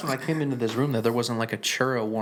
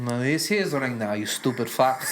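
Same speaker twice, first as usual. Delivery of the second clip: mock guard impression. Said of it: "you're really good at impressions".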